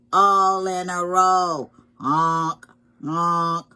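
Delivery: loud storybook goose honks; honking geese. Acted. Geese calling as they fly in line, loud honking. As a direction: honk it out like a goose.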